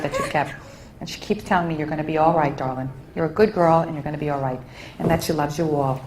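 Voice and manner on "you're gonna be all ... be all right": tender reassurance. Retold or imitated. Voicing mother's comfort to daughter.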